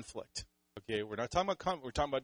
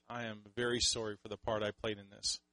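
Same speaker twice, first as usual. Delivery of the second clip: quiet, humble "I am very sorry"; soft, humble apology to a spouse; 3 semitones lower, 6 dB quieter than usual. Retold or imitated. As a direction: apologize softly to your wife. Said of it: "And I would say".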